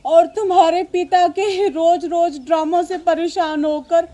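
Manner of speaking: sobbing mother's lament; crying. Acted. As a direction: cry through the words, sinking at the end. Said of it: "आप रो क्यों रही हो". (रोते हुए दुखड़ा सुनाना)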